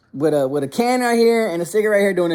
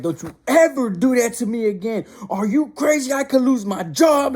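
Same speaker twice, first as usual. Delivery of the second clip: high-pitched, imitated scolding; frustrated mom yelling; 6 semitones higher than usual. Mom warning son she could lose her job, frantic imitated scolding. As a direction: act out an upset mother getting in his face. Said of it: "yelling at me and frustrated".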